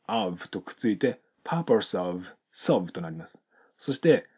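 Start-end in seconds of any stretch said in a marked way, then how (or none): 1.4-2.9 "purpose of" run together with silent E, S sliding into of; linked sounds. Shown as a demonstration. Teacher demonstrates linking, silent E. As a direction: blend "purpose of" into one word. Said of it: "Eが発音されずに、Sで終わって".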